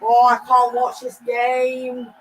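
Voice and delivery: slow, drawn-out, loud despair; agonised groaning complaint. Real, not acted. Fan who can't watch Liverpool play, agonised groan. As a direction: groan it out long, in agony.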